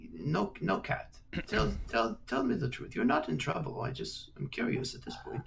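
high, airy voice of a haughty lord; lordly old nobleman. Acted. Lord addressing the girl, high and haughty. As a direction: play the lord talking down to a child.

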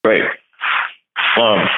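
talking with food in mouth; words around a mouthful; mouth full. Real, not acted. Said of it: "I have food in my mouth".

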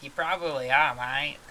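loud Australian crocodile; attempted Australian accent. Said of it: "I can't do an Australian accent".

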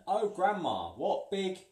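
put-on high, loud sweet girl voice; exaggerated little girl voice; girl's voice. A narrator's reading. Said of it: "she said".

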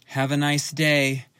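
slow, dead, lifeless cashier greeting; voice of death. Retold or imitated. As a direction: drag it out like a bored corpse. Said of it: "in a voice that is the absolute voice of death".

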